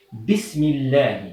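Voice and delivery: "Bismillah" slowly and joined; slow correct model. Shown as a demonstration. Teacher slowly models "Bismillah" for the class. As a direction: model "Bismillah" deliberately, hamza dropped. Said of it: "C'est pas comme ça qu'on dit en arabe".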